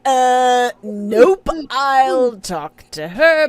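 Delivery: loud, drawn-out, emphatic veto; firm overruling. Acted. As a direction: cut him off and take charge, stretching the words. Voicing Ma firmly overruling Pa.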